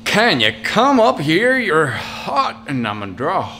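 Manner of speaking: Southern drawl. Pretend. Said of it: "think of it more of a, a drawl".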